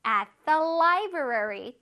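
I read books at the library, every word drawn out; slow example sentence. Shown as a demonstration. Teacher reading an example sentence slowly to kids. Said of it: "어디에서?".

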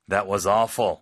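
loud blunt judgement, not sympathy; blunt, careless tone; harsh wrong way. Shown as a demonstration. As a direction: say it like a flat verdict. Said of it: "이렇게 표현하시면 안 되고요".

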